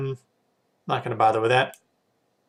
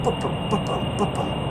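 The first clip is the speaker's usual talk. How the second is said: imitated heartbeat; 7 semitones higher than usual. Real, not acted. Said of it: "camera is not picking up my boop-boom".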